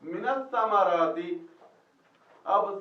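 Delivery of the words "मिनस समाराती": "मिनस समाराती" drawn out slowly; slow, careful Quranic reading; slow recitation. Shown as a demonstration. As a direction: read the phrase slowly for the class. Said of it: "नीचे जेर क्यों आ गई जी?".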